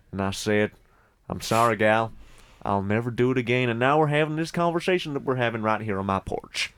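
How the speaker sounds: hint of a Southern US cowboy voice; Southern American accent. Vegetarian cowboy explains himself in a mild Southern American accent. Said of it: "Southern American".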